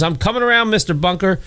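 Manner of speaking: high-pitched imitation of a rescuer's call. Rescuer answering Archie from outside, calling out. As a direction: call out to someone trapped. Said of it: "somebody's banging at and saying".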